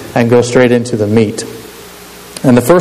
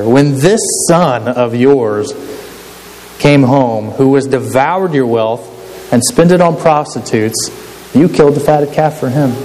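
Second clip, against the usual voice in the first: ire dripping. Acted. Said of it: "read that with some ire just dripping".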